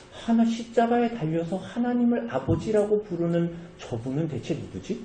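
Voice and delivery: a quiet inner question; hushed wondering. Retold or imitated. Robber wondering who Jesus is, hushed musing.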